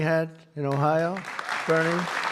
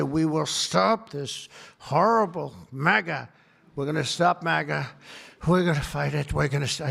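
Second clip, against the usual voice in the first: mocking Biden. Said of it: "he got up so angry".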